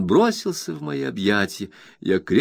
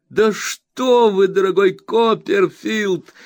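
high, wide-eyed disbelieving question; can't believe the letter never came; astonished Traddles; 11 semitones higher, 5 dB louder, slower than usual. A narrator's reading. Traddles asking Copperfield about his letter, high and amazed.

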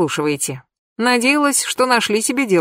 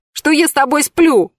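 much higher tearful wail; 8 semitones higher, 3 dB louder than usual. Acted. Anka wails to Pashka about the insult. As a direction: bawl the complaint. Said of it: "проревела Анька".

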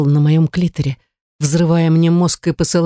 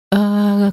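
raised, sustained "ah" without shouting; a drawn-out, contained cry; understated long cry; 5 semitones higher than usual. A narrator's reading. Narrator voices the heroine's outburst, understated cry. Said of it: "кричала я".

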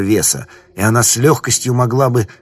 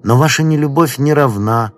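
sinister stranger voice; 2 semitones higher than usual. Acted.

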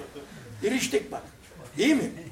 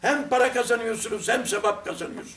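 shouting. Retold or imitated. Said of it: "bağırarak konuşuyorum ya".

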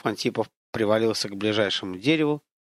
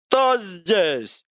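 projected demo; 6 semitones higher than usual. Shown as a demonstration. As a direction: project it to the back row of an amphitheatre. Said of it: "Добавь в голос силы".

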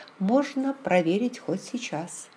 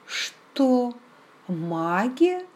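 mildly mocking question, pitched up; 5 semitones higher, much slower than usual. A narrator's reading. Heroine questions Raymond about his protective crystal, mildly mocking. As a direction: ask it with light mockery, rising at the end. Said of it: "насмешливо спросила я".

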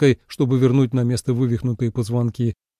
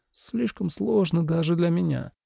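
quiet murmur; 4 semitones higher, 6 dB quieter than usual. A narrator's reading. Su Ilan's puzzled murmur.

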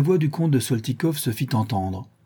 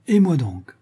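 higher, louder tongue-in-cheek retort; mocking; 6 semitones higher, 5 dB louder than usual. A narrator's reading. Ivan slyly agreeing with the governor, mocking. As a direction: toss it off teasingly. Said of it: "fit Ivan d'un air goguenard".

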